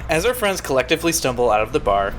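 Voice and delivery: measured audiobook-style narration; story narration. A narrator's reading. Reader sets a bar scene for listeners, story narration. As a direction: read the story aloud with deliberate phrasing.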